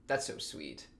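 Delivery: gushing. Real, not acted.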